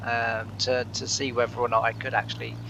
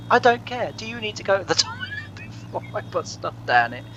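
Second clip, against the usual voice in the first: retold mum's shout, pitched up; mum screaming; 9 semitones higher than usual. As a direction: mimic mum yelling back, breaking into a laugh. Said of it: "left her coming in screaming".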